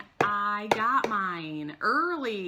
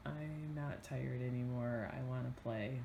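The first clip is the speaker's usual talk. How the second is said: imitating child; 8 semitones lower, 8 dB quieter than usual. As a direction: lightly mimic a whining six-year-old. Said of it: "That's a six-year-old for you".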